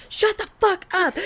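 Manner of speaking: high mock-jealous outburst; imitating bartender's disbelief. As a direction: play the stunned jealous bartender. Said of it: "She's like".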